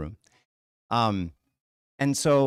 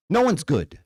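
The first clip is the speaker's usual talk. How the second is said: louder and higher, hammering it home; a sudden raised insistence; emphatic; 6 semitones higher, 6 dB louder than usual. Real, not acted. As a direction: insist no one is good. Preacher refutes the fake greetings.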